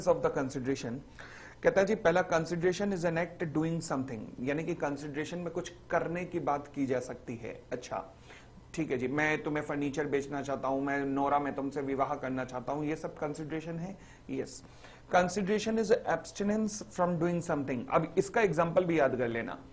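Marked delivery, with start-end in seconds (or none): 2.3-4.2 very slow, every word spaced out; slow dictation. Shown as a demonstration. Teacher reading the definition aloud for notes, very slowly. 15.1-17.8 very slow, every word spaced out; slow dictation. Shown as a demonstration. Teacher reading the definition aloud for notes, very slowly.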